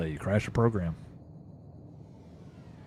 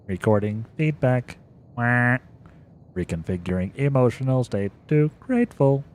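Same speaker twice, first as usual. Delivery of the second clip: monotone machine readout; flat robotic announcer. Acted. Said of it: "My robot voice is getting a workout today".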